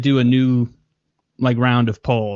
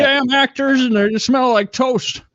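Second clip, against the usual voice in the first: put-on high, warbling old-timey actor; 12 semitones higher than usual. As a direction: warble like a thirties film star. Continued old-timey voice joke.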